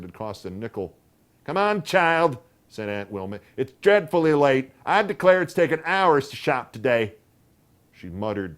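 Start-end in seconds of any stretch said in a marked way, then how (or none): 1.4-2.4 put-on high, loud aunt calling the boy; impatient, wants to leave; hurrying aunt. A narrator's reading. 3.6-7.1 high, loud aunt voice, put-upon; complaining about the wasted day; fussing aunt. A narrator's reading.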